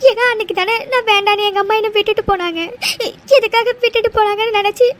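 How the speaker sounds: tearful outpouring, voice catching; crying. Acted. Telling him why Diwali hurts her, crying. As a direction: speak through tears about being abandoned. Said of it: "அழாத".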